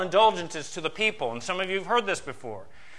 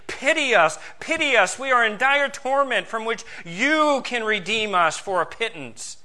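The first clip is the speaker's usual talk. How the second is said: beseeching; 5 semitones higher than usual. Acted. Dead relatives begging the living for rescue, beseeching. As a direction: beg urgently, as a preacher voicing the dead. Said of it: "beseeching you and saying".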